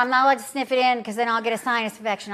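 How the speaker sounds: talking while blowing nose; nose stuffed from blowing. Real, not acted. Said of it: "I'm blowing my nose on camera".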